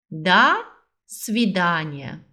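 До, pause, then свидания slowly; slow split model. Shown as a demonstration. Teacher splits the goodbye phrase for students, slowly. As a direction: break До свидания into two slow parts. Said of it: "uma das frases mais universais".

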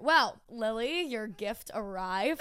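slow, drawn-out reveal; teasing announcement. Real, not acted. Telling Lily her gift arrived, a slow teasing reveal. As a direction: build suspense slowly.

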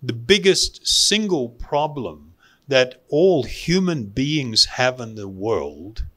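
normal talking voice

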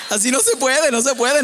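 playful frustrated shout about the failed calm talk; exasperated outburst. Acted. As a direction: throw up your hands and yell it. Exasperated after interruption.

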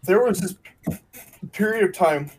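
talking through hiccups; hiccuping between words. Real, not acted. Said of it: "Excuse me, I got hiccups".

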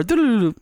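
rising notification jingle. Retold or imitated. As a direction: imitate a bright phone ping.

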